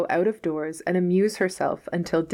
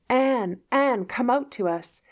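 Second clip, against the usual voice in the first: higher, sing-song call from the trees; calling voices of nature; 7 semitones higher than usual. Acted. Anne imitating the trees and flowers calling to her. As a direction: lure her out like playful spirits. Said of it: "Everything seems to be calling to me".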